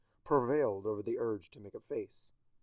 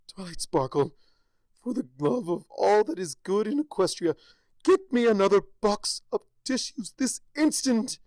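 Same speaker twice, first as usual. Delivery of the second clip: much higher, louder royal command; commanding shout; 9 semitones higher, 9 dB louder than usual. Acted. Celestia ordering Twilight to fetch tissues, shouting. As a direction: bellow the order at your student.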